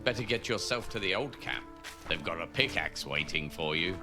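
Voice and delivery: mocking guard call. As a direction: call after him with a sneer. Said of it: "called after me with a laugh".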